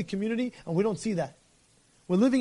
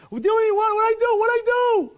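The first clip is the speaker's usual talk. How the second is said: high, loud, bewildered cries; panicked protest; 11 semitones higher, 4 dB louder than usual. Acted. Shabbat driver protests to the Sanhedrin, panicked and high. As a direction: squeal it like a man caught off guard.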